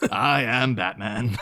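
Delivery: slow, grave I am Batman; a hint of a stuffy butler; butler's reveal. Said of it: "Alfred ... he's just like".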